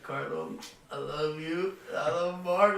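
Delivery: soft drugged quote. Retold or imitated. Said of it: "He's like".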